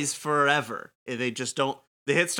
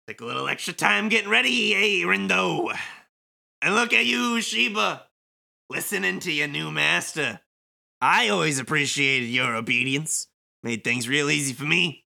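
hammy villain voice. Acted. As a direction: sneer like a game villain. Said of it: "Kingdom Hearts level villain monologue in stupid voice".

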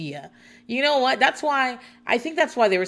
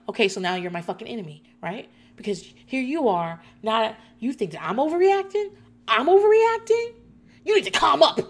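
mock outrage; 3 semitones higher than usual. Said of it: "automatically I'm like".

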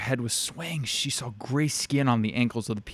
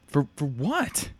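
breathy; 5 semitones higher, slower than usual. A narrator's reading. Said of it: "Lucia breathed".

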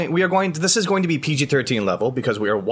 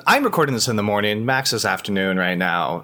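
eating breakfast while talking; mouth full; 4 semitones lower than usual. Real, not acted. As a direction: speak through a mouthful. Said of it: "I'm eating my breakfast".

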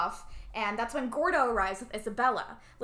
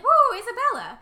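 high, loud whooping cheer; mock crowd cheer; 12 semitones higher, 10 dB louder than usual. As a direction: whoop like an adoring concert crowd. Voicing the cheering audience.

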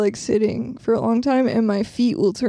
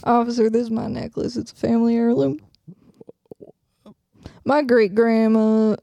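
put-on Southern lady voice; mock-proper Southern accent; Southern belle accent. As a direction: protest to the officer as a Southern belle. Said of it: "You're not a Southern Belle".

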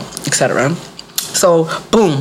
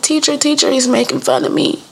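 put-on high-pitched little-girl complaint; tattling child; 8 semitones higher than usual. Little girl telling the teacher about a teasing boy, tattling. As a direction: plead to the teacher in a higher child voice.

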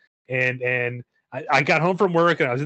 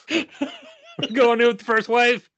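high, loud battle cry; rally the squad into the fight; gung-ho soldier; 10 semitones higher, 5 dB louder than usual. Retold or imitated. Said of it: "As we're entering a bathroom".

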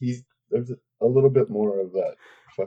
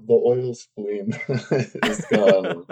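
mock jargon; 2 semitones higher, much slower than usual. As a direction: drag it out, then squeak the ending.

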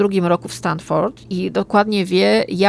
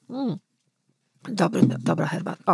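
quietly, right after a sip of tea; sipping hot tea; 6 dB quieter than usual. Real, not acted. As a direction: speak with tea still in the mouth. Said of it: "aż się muszę napić herbaty". (mówi po łyku gorącej herbaty)

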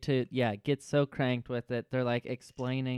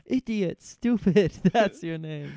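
mock kid insults; 4 semitones higher, 4 dB louder, slower than usual. Partner joins name-calling bit.

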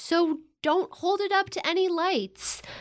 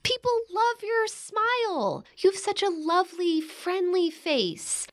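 laying it on thick; 5 semitones higher than usual. Acted. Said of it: "You're laying it on way too thick".

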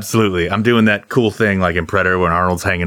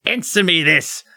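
British orator; 8 semitones higher than usual. Acted. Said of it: "I keep doing the, uh, British thing".

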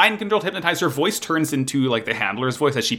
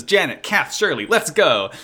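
higher-pitched call to the crew; mildly hammed-up hero's shout; retold rallying call; 6 semitones higher than usual. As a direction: call the team into action.

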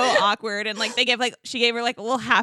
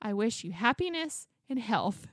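soft, careful rehearsal of a greeting; practicing a line; 7 dB quieter than usual. Retold or imitated. Woman rehearsing her gift greeting in the car, softly practicing. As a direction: lightly imitate someone memorizing a phrase. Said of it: "practicing in the car".

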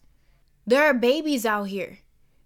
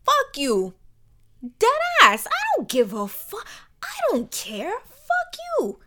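shouting, pitch jumping high, defiant; angry outburst; 12 semitones higher, 4 dB louder than usual. Acted. Talking back to the bum who says calm down, loud defiant shouting.

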